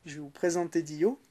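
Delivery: talking between sips of a drink; words squeezed around a sip; while sipping a drink. Real, not acted. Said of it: "je bois en même temps".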